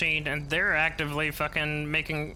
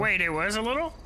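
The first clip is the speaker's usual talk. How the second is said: voice changer; 5 semitones higher than usual. Real, not acted. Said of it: "sound like a squeaky baby".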